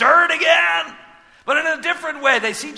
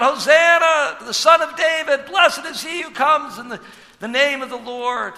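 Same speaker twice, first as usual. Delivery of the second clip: crowd's shout; 3 semitones higher than usual. Retold or imitated. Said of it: "they're all shouting out".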